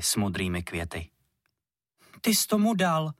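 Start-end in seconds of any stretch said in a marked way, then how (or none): 2.2-3.1 put-on higher, louder reproachful children's voice; two girls scolding together; reproachful kids in unison. A narrator's reading. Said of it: "pronesli svorně Verunka s Klárkou".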